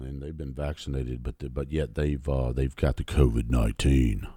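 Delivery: a hint of a prim news anchor, mocked; mocking TV newsman. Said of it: "I watched this idiot on".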